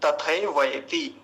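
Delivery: तथैवयति slowly as "ta-thai-vai-ti"; full ai vowels. Shown as a demonstration. Teacher stressing the ai-kar, slow तथैवयति. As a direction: open both ai glides in तथैवयति. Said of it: "अयकार".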